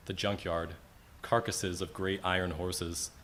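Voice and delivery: measured free verse in short, separated phrases; poem recitation. Acted. Poet remembering a great-great-uncle, measured recitation. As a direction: read it image by image, pausing between, fading at the close.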